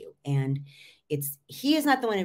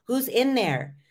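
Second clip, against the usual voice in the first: louder, higher teasing call with a laugh; mock wake-up call; 6 semitones higher, 8 dB louder than usual. Coach mocks talking to a monotone speaker, loud teasing call. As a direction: poke fun at a zoned-out listener. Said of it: "monotone sound voice where it's like".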